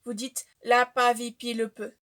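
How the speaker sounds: "la pavie puis le peu" spelled out with each syllable doubled by a P; langue des P demo. Shown as a demonstration. Teaching viewers the P language her mother taught her, demo of "la pavie puis le peu". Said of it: "tu dis la même syllabe mais avec un P".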